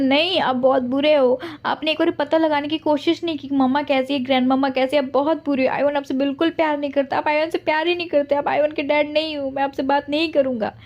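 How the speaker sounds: a little boy telling his dad he's bad; sulking child. Son hits father, says he's bad. (रूठे बच्चे की ऊँची आवाज़)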